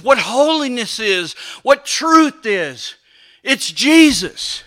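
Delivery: measured pulpit cadence; rhythmic preaching. Real, not acted. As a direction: proclaim each item with conviction. Preaching with rhetorical list.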